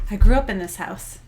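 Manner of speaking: loud, stunned disbelief; shocked exclamation. Retold or imitated. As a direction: blurt it out in amazement. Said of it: "I was like".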